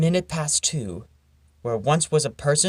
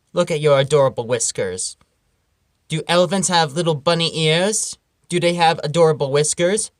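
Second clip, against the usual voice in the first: mock scolding; 4 dB louder than usual. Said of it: "scolding Alfred the bunny".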